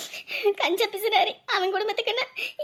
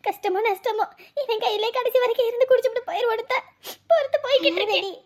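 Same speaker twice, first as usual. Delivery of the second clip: half-crying, half-laughing; tearful resignation; 3 semitones higher than usual. Acted. Wife crying to friend.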